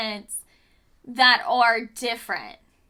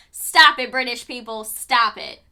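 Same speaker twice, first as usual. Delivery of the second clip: loud mock scolding, stop it punched; 2 semitones lower, 7 dB louder than usual. Real, not acted. Vlogger scolding British showrunners, loud and exasperated. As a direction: tell them off, loud and fed up.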